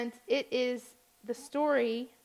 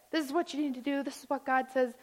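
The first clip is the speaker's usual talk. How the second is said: a touch of preacher getting carried away; imitated preaching; 3 semitones higher than usual. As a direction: lightly imitate an insistent preacher. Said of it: "They start going at it".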